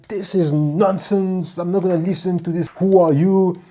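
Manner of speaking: high, loud dismissive scoff; mock indignant outburst. Doctor imitates the nurse scoffing at him before storming out. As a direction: play her scornful outburst before storming out. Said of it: "she stormed out".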